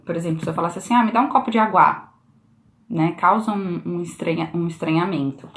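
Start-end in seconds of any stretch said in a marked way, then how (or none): 0.9-2.1 "água" said as "a-GUÁ", stress on the end; wrong syllable stressed. Shown as a demonstration. Teacher showing how odd it sounds, "água" stressed last. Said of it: "só a sílaba estando errada".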